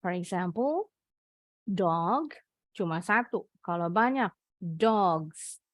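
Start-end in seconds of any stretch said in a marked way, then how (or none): 4.6-5.6 "dogs" ending in a buzzing z; s sounded as z. Shown as a demonstration. Teacher shows a z sound at the end of "dogs". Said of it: "Huruf S-nya bunyinya kayak Z".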